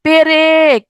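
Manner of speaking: পেরেক loud, in two long syllables; inserted vowel. Shown as a demonstration. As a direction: hold the vowel that parts প from র in পেরেক. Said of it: "মাঝখানে একটা এ ধ্বনি আসছে".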